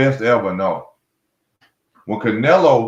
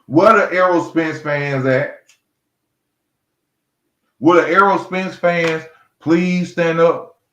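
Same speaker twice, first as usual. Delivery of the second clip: mock call-out; 4 semitones higher than usual. Real, not acted. Calling out rival fans.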